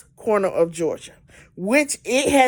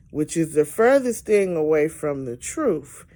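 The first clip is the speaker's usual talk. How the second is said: ordinary talk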